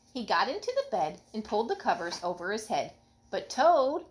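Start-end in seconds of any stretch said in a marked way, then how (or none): 3.3-4.0 high, louder plea of a name; crying out. A narrator's reading. Frog pleading with Toad, mild cry. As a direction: call out to stop him leaving. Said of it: "cried Frog".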